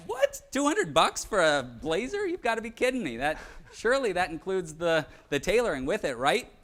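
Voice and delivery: a high yelp on "What?", then hammed-up disbelief; mock shocked flinch. Shopper acts shocked at the salesman's price, hammed-up disbelief. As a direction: fake outrage to haggle the price down. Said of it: "I'm gonna flinch back".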